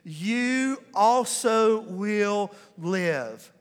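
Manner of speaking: every word drawn out slowly; call and response. Shown as a demonstration. Pastor leading the congregation to say it together, drawn out slowly. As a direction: lead the room through it word by word. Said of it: "say it with me".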